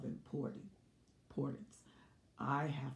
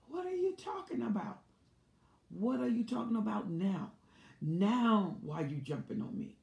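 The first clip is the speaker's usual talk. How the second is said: much higher, louder, protesting voice; indignant husband; 7 semitones higher, 8 dB louder than usual. Retold or imitated. Husband snapping back at his wife in the car, indignant loud protest. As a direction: throw the accusation back, outraged and shrill-high. Husband defends himself in argument.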